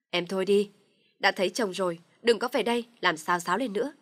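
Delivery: loud, annoyed rebuke; irritated telling-off. Acted. Husband irritably tells his sister to stop stirring trouble. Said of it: "Chồng tôi bực mình nói".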